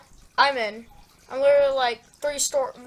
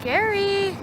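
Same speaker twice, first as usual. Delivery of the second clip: mom voice; much slower than usual. Acted. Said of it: "honey ... sweetheart".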